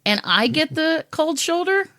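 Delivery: high, slow, exasperated retelling; mock indignant. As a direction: act out your outraged reply. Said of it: "I'm like".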